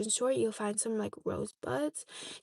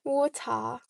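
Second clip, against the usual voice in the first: "Water" ending in an open ah, imitated Chinese accent. Shown as a demonstration. Repeating the joke for viewers, Chinese accent. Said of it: "And then in Chinese accent, it'd be".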